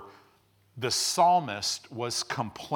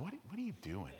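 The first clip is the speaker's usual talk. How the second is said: soft, hushed inner scolding; a quiet incredulous voice inside; mock inner voice; 2 semitones higher, 16 dB quieter, faster than usual. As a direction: heart muttering in disbelief. Heart scolding the complainer.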